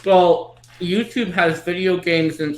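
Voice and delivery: chewing while talking; mouth full. Real, not acted. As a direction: talk through a mouthful of food. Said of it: "I'm talking with my mouth full".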